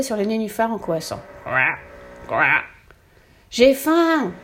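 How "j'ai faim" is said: loud, high hungry howl. A narrator's reading. Starving ogre by a dark pond, howling. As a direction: bellow it with mouth wide open. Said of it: "hurla Zéphirin".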